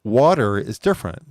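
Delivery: water with a hard R; water said the American way. Shown as a demonstration. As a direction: say water with a rolled-in American R, wah-ter. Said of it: "We say it water".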